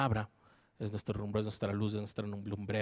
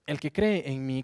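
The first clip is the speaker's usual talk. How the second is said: Jesus's words read out in a raised, carrying voice; crying out; 3 semitones higher, 6 dB louder than usual. Acted. Preacher reading Jesus crying out to the crowd, loud. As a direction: proclaim it loudly, like a cry to the crowd. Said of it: "clamó Jesús con voz fuerte".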